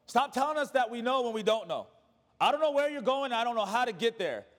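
lightly voiced protesting disciple, pitched a little up; a touch of exasperated confusion; Thomas. Disciple answering Jesus about the way, mildly exasperated. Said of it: "you hear Thomas's response after this".

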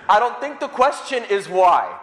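laughing. Real, not acted. Priest jokes about smashed window.

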